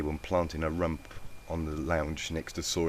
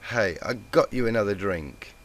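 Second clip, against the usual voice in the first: cheery tipsy mare; 4 semitones higher, 6 dB louder than usual. A narrator's reading.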